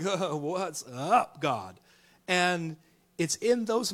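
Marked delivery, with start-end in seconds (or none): 0.0-1.8 casual prayer. Retold or imitated. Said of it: "you're just like".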